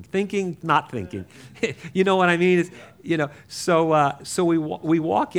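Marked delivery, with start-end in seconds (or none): 0.0-0.6 THINKING pitched up high; high-pitched thought. Acted. Storyteller mimicking a young kid's wavering mind, high-pitched. 0.6-1.2 dropped-pitch answer. Acted. Storyteller mimicking a young kid's wavering mind, pitch dropped.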